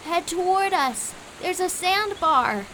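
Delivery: high-pitched urgent shout; high, urgent storybook screech; screeched warning. A narrator's reading. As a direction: screech directions to a friend in danger. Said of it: "Quincy screeched".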